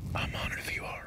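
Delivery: very quiet, hushed, breathy whisper. Having spotted a coyote nearby, one man tells his partner he's ready: whispering.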